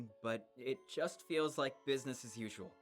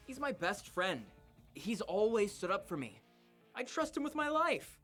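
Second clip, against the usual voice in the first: audible smile, pitch lifting higher; smiling voice; 5 semitones higher than usual. Acted. Eden vouching for his best friend, smiling voice. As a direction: defend a friend with a smile, rising brightly. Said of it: "could hear the smile in his voice".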